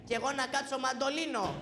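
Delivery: a cheeky retort that plays on his father's word; cheeky kid talking back; mocking reply. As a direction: tease the father with a playful rhyme. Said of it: "που κοροϊδεύεις".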